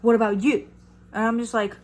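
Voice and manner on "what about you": mock yell, louder on each repeat; raised-voice accusation, short of a scream; retold screaming. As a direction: imitate a belligerent neighbor hollering. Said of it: "starts screaming at me".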